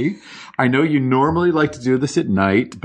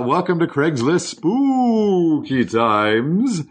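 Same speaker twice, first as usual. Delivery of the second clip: put-on slow Bela Lugosi vampire accent; stretched-out stereotypical Hungarian vampire accent; 2 semitones higher than usual. Host welcomes listeners to the show, slow theatrical vampire accent. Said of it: "Your accent is real good".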